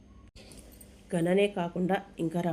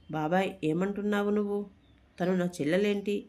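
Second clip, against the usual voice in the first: heated demand; 2 semitones higher than usual. Acted. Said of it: "అని ఆవేశంగా అడుగుతాడు రఘువరన్".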